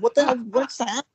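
high, confused what the hell; mock bewildered fan; baffled. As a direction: react bewildered as he walks off. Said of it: "I'm like".

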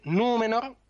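Númenor with a long, drawn-out Ú; long vowel. Shown as a demonstration. Teacher shows the Elvish long vowel, Númenor with Ú held. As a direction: stretch the first vowel of Númenor slowly. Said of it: "es si una vocal es larga".

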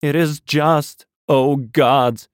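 talking aloud. A narrator's reading. Raving curate calls out to God, loud and slow. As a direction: cry it out to God, slow and heavy. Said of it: "began to talk aloud instead of whispering".

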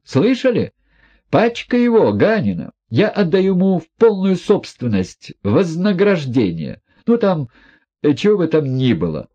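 high, feverish, defiant woman; reckless heroine. A narrator's reading. Nastasya bidding the guests farewell, high feverish defiance. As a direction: toss off her farewells in a fever.

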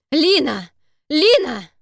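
husband roaring his dying wife's name. Acted. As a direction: bellow her name in anguish. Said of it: "Это был не крик, а рёв".

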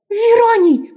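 very high, loud, tearful calling; tearful cry. A narrator's reading. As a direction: cry out his name through tears. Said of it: "В её голосе звенели слёзы".

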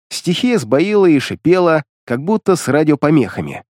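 usual speaking voice

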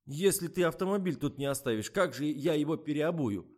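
high, loud amused workman voice; amused mechanic. A narrator's reading. Amused mechanic teases the flustered driver, high and loud. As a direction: laugh at her silly question. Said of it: "Механик окончательно развеселился".

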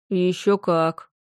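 slow and dreamy, savoring the memory. Acted. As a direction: let it float out dreamily. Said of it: "мечтательно закатив глаза".

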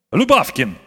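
громко и чуть выше, властно; позвать через всю контору; громкий окрик. A narrator's reading. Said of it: "крикнул он так громко". (почтмейстер громко зовёт служащего)

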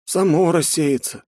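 slow, weary sighing reply. Acted. Student answering the curator, weary sigh. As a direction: let it out on a tired breath. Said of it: "вздохнул я".

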